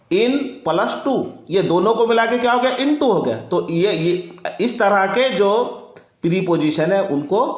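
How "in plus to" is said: in plus to drawn out very slowly, word by word; slow spelled out. Shown as a demonstration. Teacher spelling out in plus to slowly for the class. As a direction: lay out each part slowly so students hear in plus to.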